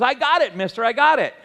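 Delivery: lightly voiced boy calling out his success; excited boy. Young boy to the man whose pole he hooked, excited.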